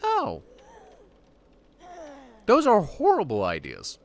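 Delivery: high, loud, appalled cry; horrified reaction. Real, not acted. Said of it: "YouTube Studios is like".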